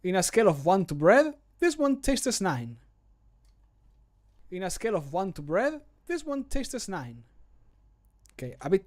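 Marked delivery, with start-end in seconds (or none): 0.0-2.8 character voice line. Acted. Streamer retakes the tasting line, verdict pitched much higher. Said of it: "recording voice line takes". 4.5-7.2 character voice line. Acted. Streamer retakes the tasting line, verdict pitched much higher. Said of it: "recording voice line takes".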